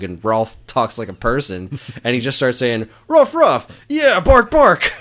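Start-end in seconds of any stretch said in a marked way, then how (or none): 3.1-4.9 high, loud yappy barking words; mock dog bark. Retelling Sprocket the dog barking at Doc, high mock barks. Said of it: "Sprocket barks like a dog".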